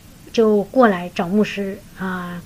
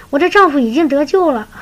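我的丈夫已经得救了 high and louder, triumphant; joyful proclamation; 5 semitones higher, 4 dB louder than usual. Retold or imitated. Sister enlightened, joyfully declaring her husband saved. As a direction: announce it with joy. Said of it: "茅塞顿开".

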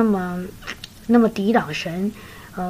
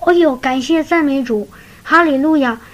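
bursting with sudden joy; joyful exclaim; 4 semitones higher than usual. Retold or imitated. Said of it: "茅塞顿开".

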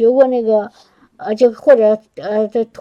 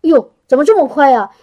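retold surprise; faster than usual. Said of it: "我吓一跳".

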